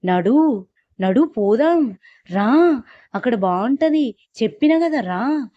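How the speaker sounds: possessed woman yelling at her sister to come along; wild shouting. Retold or imitated. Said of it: "గట్టి గట్టిగా అరుచుకుంటూ".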